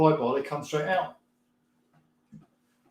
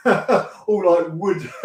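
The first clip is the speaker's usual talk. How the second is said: laughing; 5 dB louder, much slower than usual. Real, not acted. Streamer laughing to chat about the old Traveller, giggling. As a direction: laugh while picturing the wood trim.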